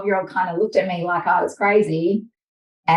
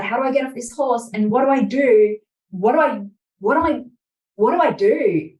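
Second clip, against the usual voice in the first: rising, high-pitched and rushed, a spiral of worried questions; panicked inner voice; 4 semitones higher than usual. Retold or imitated. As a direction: babble your fears faster and higher as the panic builds. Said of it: "I'm like".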